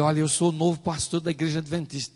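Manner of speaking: mildly eager self-introduction; retold enthusiasm. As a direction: introduce yourself with a touch of eagerness. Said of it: "todo entusiasmado". (apresentação levemente entusiasmada)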